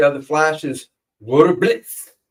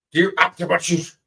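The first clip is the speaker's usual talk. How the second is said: German accent; 3 semitones higher than usual. Shown as a demonstration. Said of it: "Yes, I'm butchering it".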